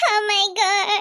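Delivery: sobbing through the words; crying. Acted. Scolded child sobs over having eaten the chicken. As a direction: cry it out, half-sobbing. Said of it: "ಯಾಕೆ ಹೀಗ್ ಅಳ್ತಾ ಇದೀಯ ನೀನು".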